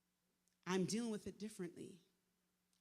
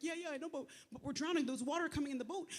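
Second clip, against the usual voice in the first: retold panic; 7 semitones higher, 3 dB louder than usual. Panicking to Jesus in boat.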